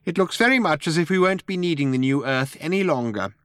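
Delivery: high little mouse voice; officious mouse. A narrator's reading.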